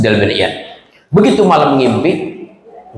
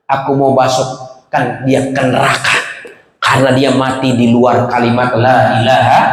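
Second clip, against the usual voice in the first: lightly voiced angel; 5 semitones lower than usual. Angel answering weeping teacher, low measured verdict.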